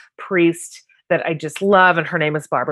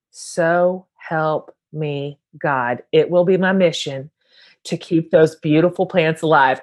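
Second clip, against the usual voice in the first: slow, hammed-up oath, lightly done; mock-grave pledge over houseplants; mock solemn vow. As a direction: swear it like a grand promise, half joking.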